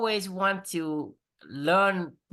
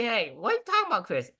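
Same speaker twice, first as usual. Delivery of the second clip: imitating wife; 4 semitones higher, faster than usual. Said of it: "my wife say".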